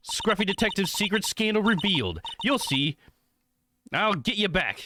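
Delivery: insistent reporter voice. Acted. Streamer voicing a pushy reporter at the hotel door, insistent. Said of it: "used the wrong voice there".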